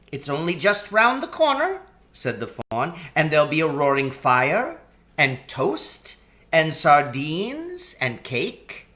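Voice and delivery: a faun tempting Lucy to tea; gently persuasive faun; coaxing faun. Acted. Faun character voice.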